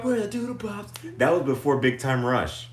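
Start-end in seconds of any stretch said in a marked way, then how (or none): 0.0-1.2 show host voice. Retold or imitated. Imitating the show's opening line.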